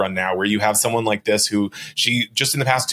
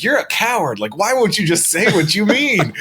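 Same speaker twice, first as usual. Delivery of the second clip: higher, taunting demand; mock accusing lawyer; 9 semitones higher than usual. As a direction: imitate the lawyer jabbing at her. Lawyer quoted in heated deposition.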